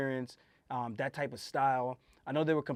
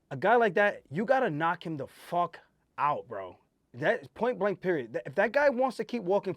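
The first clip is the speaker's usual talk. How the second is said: emphatic insistence; 4 semitones higher, 4 dB louder than usual. Real, not acted. Insisting on knocking Yan out.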